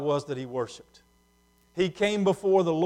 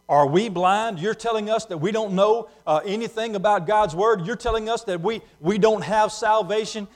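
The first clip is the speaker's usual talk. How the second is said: indignant protest; 6 semitones higher, 7 dB louder than usual. Acted. Pharisees protest Jesus' words.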